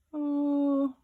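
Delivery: long, high, drawn-out "oooh"; tired "oh". Acted. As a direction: give a weary unicorn's long high oh. Voices the tired unicorn sighing.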